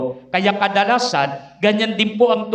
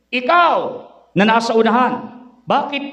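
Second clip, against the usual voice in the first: Satan interrogating; 3 semitones higher than usual. Acted. Satan questioning the sinner at hell's gate, booming. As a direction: call the first in line like a demon judge.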